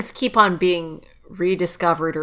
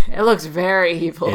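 louder, laughing on the words; laughing emphasis; 5 dB louder than usual. Real, not acted. Co-host repeating their verdict on the demon train, laughing.

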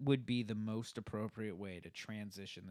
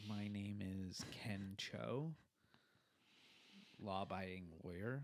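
slow, lower put-on Chinese accent; mock Chinese accent; 5 semitones lower, 8 dB quieter than usual. Shown as a demonstration. Asked to do Chinese, he invents a character, slow mock accent. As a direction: introduce yourself slowly in a mock Chinese accent. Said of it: "Okay, now do Chinese".

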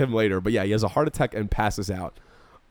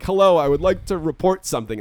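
higher-pitched, stiffly polite mock report; reluctant caller reporting; 5 semitones higher than usual. Reluctant friend reports to the policeman, mock-polite.

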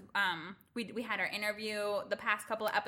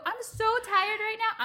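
mock weariness; 11 semitones higher, 5 dB louder than usual. Mom playing along with the toddler.

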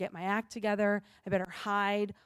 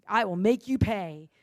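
the repeat pushed louder, a stern parent's vow; louder mock threat; 5 dB louder than usual. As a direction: say it again with more force, half acted. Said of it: "my first instinct is".

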